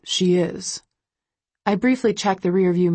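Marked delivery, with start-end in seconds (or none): 0.0-0.8 hushed whisper into the phone. A narrator's reading. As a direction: whisper it so she can't hear.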